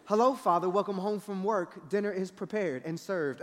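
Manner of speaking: imitating overly formal, polite children; extra proper. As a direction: greet Father with mock stiff manners. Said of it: "Why y'all all extra proper right now?".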